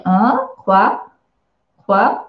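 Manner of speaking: sharp rising questioning Quoi, pitch climbing at the end. Shown as a demonstration. Teacher shows a student the rising question tone. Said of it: "Et quand c'est une question, c'est un ton montant".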